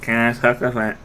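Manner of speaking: tongue-out attempt, garbled; tongue sticking out. Shown as a demonstration. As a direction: try to talk with tongue out. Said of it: "no, no, not really".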